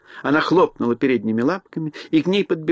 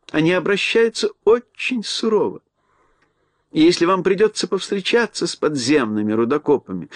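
mouse queen voice; 5 semitones higher than usual. Acted. Queen warns about miners.

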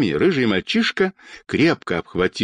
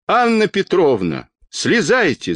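high-pitched calling up; urgent cry; 8 semitones higher than usual. A narrator's reading. Children's doctor to the old woman on the ladder, calling out. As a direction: call up high, urging her down. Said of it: "закричал детский доктор".

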